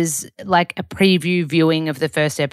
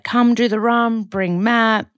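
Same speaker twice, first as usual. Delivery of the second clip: higher, eager retold invite; upbeat invitation; 6 semitones higher, 3 dB louder, slower than usual. Coach inviting podcaster along to the run, upbeat. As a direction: rope her in brightly, imitating a mate.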